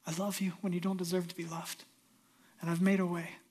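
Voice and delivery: a tender divine voice, lightly voiced, hushed at the end; voice of a loving God. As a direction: speak God's promise gently, almost whispered. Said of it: "But the promise of God is".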